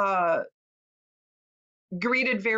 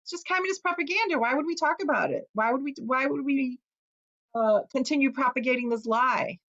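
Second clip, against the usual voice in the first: dismissive elders; 4 semitones higher than usual. Retold or imitated. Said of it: "And they're like".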